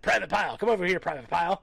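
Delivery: loud barking drill sergeant call; mock drill sergeant. Army sergeants calling the speaker, mock drill-sergeant bark. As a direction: shout down a recruit. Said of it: "that's all they fucking said".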